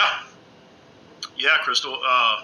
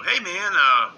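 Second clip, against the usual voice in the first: lightly voiced friend, pitched much higher; quoting her cheerful tip in a higher voice; imitating Crystal; 10 semitones higher than usual. Retelling Crystal's advice to viewers, high mock voice. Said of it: "She, you know".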